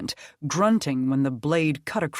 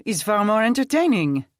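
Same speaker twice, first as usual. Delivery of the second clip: loud, higher teasing call; calling back; 7 semitones higher, 6 dB louder than usual. A narrator's reading. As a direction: shout a cheeky reply across the fight. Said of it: "Etienne called back".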